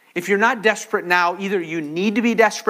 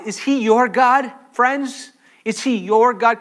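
higher, louder appeal to the congregation; urgent challenge; 5 semitones higher, 5 dB louder than usual. Real, not acted. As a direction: press the question home.

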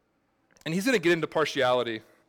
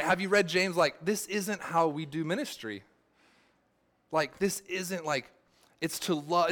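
higher, incredulous scolding; exasperated retort; 4 semitones higher than usual. Retold or imitated. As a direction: set him straight in disbelief. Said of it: "I was like".

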